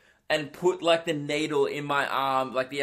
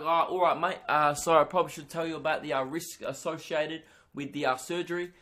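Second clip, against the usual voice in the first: bad British accent. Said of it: "this is the worst British accent".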